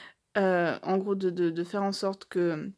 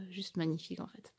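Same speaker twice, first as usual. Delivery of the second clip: whispered praise; 11 dB quieter than usual. Real, not acted. Praising the artist's work.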